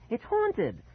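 high, slow, mock shout; desperate cry, voice cracking. Boy shouts to Dad that the house is to blame. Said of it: "I shouted, my voice cracking".

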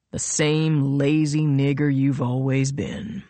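lightly voiced gloating villain; contemptuous villain. Royal tells Nola she always gives up, contemptuous villain.

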